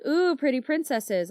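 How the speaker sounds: put-on high, delighted little-girl coo; light imitation of a three-year-old swooning over princesses; childlike gush. Three-year-old telling mom she loves princesses, delighted high coo. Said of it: "I was like".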